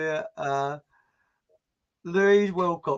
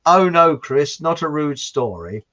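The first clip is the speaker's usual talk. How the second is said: mock alarmed protest; 7 dB louder, slower than usual. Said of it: "Stewie says".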